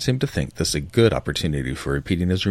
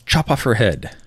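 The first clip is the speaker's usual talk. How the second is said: loud harsh command; shouted order; 7 semitones higher, 5 dB louder than usual. Acted. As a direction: bark the order out. Duchess orders execution.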